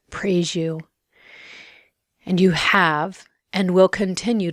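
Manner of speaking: measured, reverent prayer with pauses; prayer of gratitude. Real, not acted. Thanking the Lord for healing me, reverent prayer. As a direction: give thanks phrase by phrase, unhurried.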